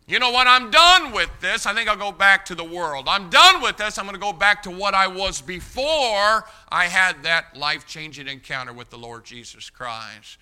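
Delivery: loud, exasperated I'm-done-with-this; fed-up outburst. Retold or imitated. Peter declaring he is done and going back to the world, frustrated and loud. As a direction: throw up your hands and quit, loud and frustrated. Peter voiced quitting his faith.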